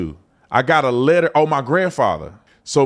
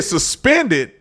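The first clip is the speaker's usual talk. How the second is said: shocked disbelief. Retold or imitated. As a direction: squeal it in total disbelief. Shocked outburst at suspended license.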